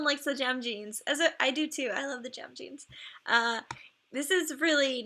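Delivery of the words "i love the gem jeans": whisper. Real, not acted. Fond aside while reviewing dragons.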